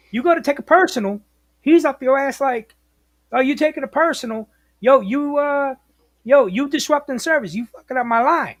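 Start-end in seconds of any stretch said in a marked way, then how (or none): 3.3-8.5 higher, mildly heated mock scolding; hassling dispatcher. Dispatcher chewing out a driver for taking a personal, mock hassling. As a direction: imitate a dispatcher getting on someone's case.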